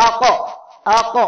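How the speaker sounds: আক with a bounced echo on the k; echoing qalqala. Shown as a demonstration. Teacher showing the echo of qalqala. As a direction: let the k of আক knock and rebound. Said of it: "এই যে ধাক্কা লাগতেছে".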